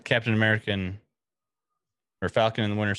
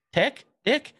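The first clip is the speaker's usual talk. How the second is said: confused boss. Retold or imitated. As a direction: repeat both words, baffled. Boss mishearing the name.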